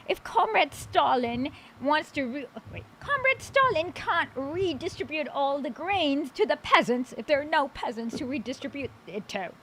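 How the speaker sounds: put-on lightly British-accented kulak; a hint of mock-British kulak. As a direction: keep up a playful British accent. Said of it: "with a British accent just for the fun".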